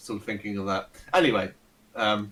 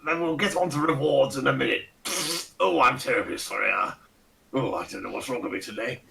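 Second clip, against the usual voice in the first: lightly voiced pompous old aristocrat; a hint of a Ronnie Barker toff; pompous old lord; 3 semitones higher than usual. Fat old lord greeting the party, lightly pompous and fussy. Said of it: "with the accent and everything".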